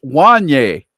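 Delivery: "Wanye" as WAHN-yay, slow and careful; Wanye rhyming with a rapper's name. Shown as a demonstration. Telling the guest how it's pronounced, "Wanye" rhyming with a rapper's name. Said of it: "It's pronounced like the rapper".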